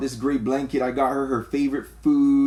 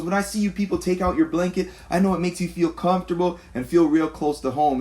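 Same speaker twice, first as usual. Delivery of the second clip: lightly higher mock lady's voice, a bit quick; imitating the lady; 5 semitones higher than usual. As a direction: retell her remark in a pitched-up mock voice. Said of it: "She just goes".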